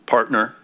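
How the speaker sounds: partner said with firm weight; stress on partner. Real, not acted. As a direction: lean on the word partner so it lands. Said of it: "and I emphasize the word partner".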